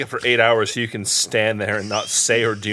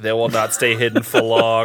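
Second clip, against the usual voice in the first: put-on Boston accent; 4 semitones lower than usual. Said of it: "Did he just have a Boston accent".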